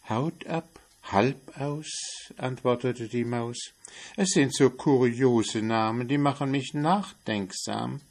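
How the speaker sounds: a hint of a puzzled mouse; wondering mouse. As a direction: muse over the strange names.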